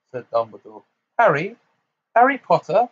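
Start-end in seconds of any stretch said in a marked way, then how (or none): 1.2-2.9 high, loud incredulous cry; startled. Acted. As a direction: sound thunderstruck. Fudge startled at Harry.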